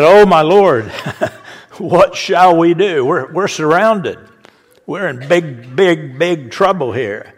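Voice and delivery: a servant crying out in panic; half-laughing mock fear at the enemy army; panicked servant.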